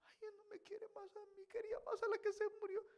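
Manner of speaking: mock jealous wife complaining; whiny new wife. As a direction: pout it like a jealous new bride. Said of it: "Imagínese la nueva".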